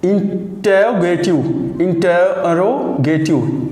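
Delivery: इंटेरोगेटिव drawn out slowly, syllable by syllable; slow model word. Shown as a demonstration. Teacher models इंटेरोगेटिव slowly for students. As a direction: stretch इंटेरोगेटिव so each sound is heard. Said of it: "यहाँ पे आ का sound आएगा".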